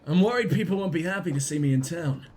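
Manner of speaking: lightly put-on posh accent; a touch of posh worry. Voicing a worried game character, lightly posh. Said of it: "I don't know why he's posh".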